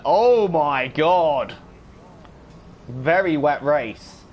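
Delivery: slow, loud drawn-out exclamation; surprised. Real, not acted. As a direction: stretch it out in shock. Sees wet race forecast.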